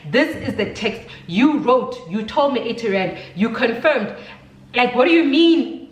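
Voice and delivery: insistent, exasperated confrontation; retold indignant challenge; retold anger. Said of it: "Now I was angry".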